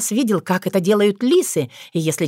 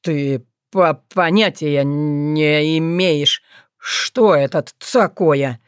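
put-on lower, slow stammering young fox man, joyless; gloomy Leland; 4 semitones lower, much slower than usual. A narrator's reading. Leland answers his ex-fiancée gloomily, low slow stammer. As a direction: answer her flatly, stumbling on words. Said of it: "невесело отозвался Леланд".

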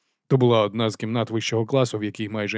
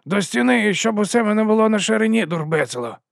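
much higher, mangled guard order; Nobby's voice; 10 semitones higher than usual. A narrator's reading. Нобі до Вонса, плутаний наказ. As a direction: bark a half-remembered command.

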